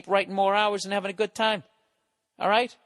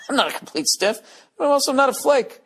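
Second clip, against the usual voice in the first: mocking the letter writer, louder and rising; mocking repeat; 6 semitones higher, 6 dB louder than usual. Ridiculing a letter writer's self-praise, mocking and louder. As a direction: parrot the listener's brag back in mock disbelief. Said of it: "Dude, those are both bad things".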